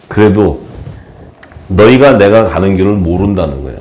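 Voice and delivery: ordinary delivery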